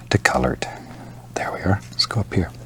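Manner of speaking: soft near-whisper; almost whisper it. Real, not acted. Soft aside while painting.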